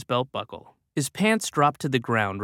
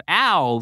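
mock ow; 3 semitones higher than usual. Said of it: "made a sound that was closer to".

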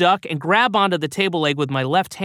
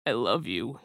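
soft tearful whisper; whispered through sobs; 3 semitones lower, 7 dB quieter than usual. A narrator's reading. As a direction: breathe it out while crying. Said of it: "he whispered through sobs".

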